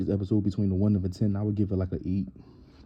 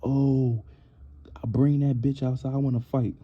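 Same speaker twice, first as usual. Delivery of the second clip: mock yelling Natalie; 5 semitones higher than usual. Mimicking Natalie yelling threats off the bus, mock yell. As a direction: ham up her threats off the bus. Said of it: "She yelling".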